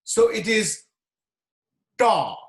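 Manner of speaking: ta with the tongue curled back; curled tongue heavy consonants. Shown as a demonstration. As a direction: retroflex ta, tongue tip curled up. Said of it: "you have to roll the tongue".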